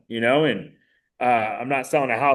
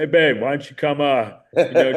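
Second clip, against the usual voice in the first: imitated English accent, higher and louder; 3 semitones higher, 5 dB louder than usual. Friend inviting him over, in a put-on English accent. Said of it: "in his English accent".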